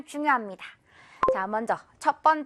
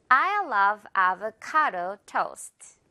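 I love avocado toast said very slowly and clearly; slow model sentence; 2 semitones lower, much slower than usual. Shown as a demonstration. Teacher modelling the sentence for students, very slow. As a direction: lay out every word slowly. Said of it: "avocado toast라고 해야겠죠".

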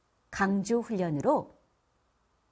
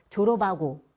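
dialect unaspirated; 3 dB louder than usual. Shown as a demonstration. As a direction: say 졸업하고 as 조러바고. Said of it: "해야 되는데". (졸업하고를 거센소리 없이 조러바고로)

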